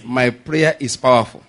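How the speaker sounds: each word given out firmly; leading the congregation. Shown as a demonstration. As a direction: say it for them to repeat. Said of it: "repeat word for word what I said".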